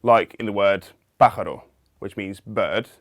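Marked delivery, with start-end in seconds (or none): 1.2-1.6 pájaro with the beat on PÁ; Spanish "pájaro", first syllable stressed. Shown as a demonstration. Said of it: "stress on the first syllable".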